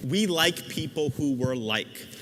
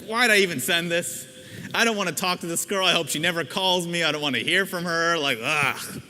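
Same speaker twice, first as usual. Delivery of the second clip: mock annoyed self-talk, a bit louder and faster; regretful groan; 3 semitones higher, 4 dB louder than usual. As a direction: grumble like you regret sending it. Regretful inner voice, acted.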